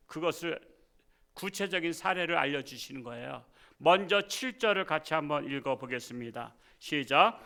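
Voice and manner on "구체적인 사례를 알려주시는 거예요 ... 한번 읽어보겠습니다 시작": ordinary talk, nothing marked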